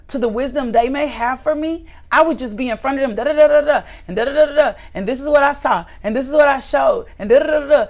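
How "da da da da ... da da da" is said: mock chatter. Mocking own past chatter.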